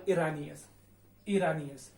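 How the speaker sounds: ईरानी एस said slowly as i-ra-ni-es; ईरानी एस with the s clearly added; teacher models ईरानी एस slowly; Spanish pronunciation. Shown as a demonstration. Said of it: "इसका जो उच्चारण रहेगा वो रहेगा".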